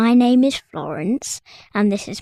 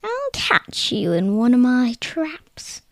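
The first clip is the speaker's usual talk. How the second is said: menacing whisper; 2 semitones higher than usual. Acted. Troll menaces king and unicorn.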